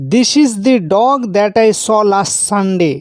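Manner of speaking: পুরো বাক্য খুব ধীরে, প্রতিটি শব্দ আলাদা করে; slow careful English. Shown as a demonstration. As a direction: read it word by word, very slowly. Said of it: "জোর দিয়ে কোনো কিছু বললে". (উদাহরণ বাক্যটা খুব ধীরে ধীরে পড়া)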